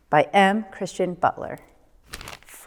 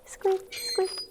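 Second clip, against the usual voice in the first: much higher soft squeak; lantern squeak; 11 semitones higher, 6 dB quieter than usual. A narrator's reading. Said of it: "went the lanterns".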